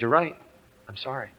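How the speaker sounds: hushed, low admission; quiet contrition. Acted. Father conceding to the Holy Spirit, quietly contrite. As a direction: give in softly, barely voicing the apology. Father humbly gives in to rebuke.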